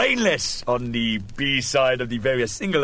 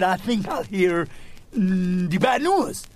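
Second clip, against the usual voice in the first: patient voice; 5 semitones higher, slower than usual. Retold or imitated.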